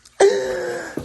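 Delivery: loud sharp gasp of joy; high delighted gasp. Real, not acted. Seeing her favorite plant, loud delighted gasp. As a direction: gasp loudly, thrilled.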